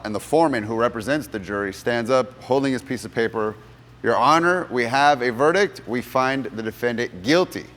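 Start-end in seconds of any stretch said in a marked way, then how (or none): 4.0-7.6 verdict announcement. Retold or imitated. Jury foreman announces the verdict to the judge, formal and loud. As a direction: stand up and read the verdict to the court.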